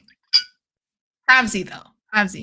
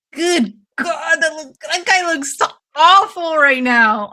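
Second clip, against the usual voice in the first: shocked; 5 semitones higher, 7 dB louder than usual. Real, not acted. Reacting to the fighter's look.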